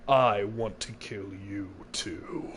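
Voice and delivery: a creepy whispered confession to Mister Wright; menacing whisper. Acted. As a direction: breathe the threat slowly and quietly. Menacing confession in game scene.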